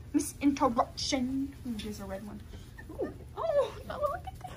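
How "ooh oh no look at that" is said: high, loud laughing sorry; laughing apology. Real, not acted. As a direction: apologise while cracking up.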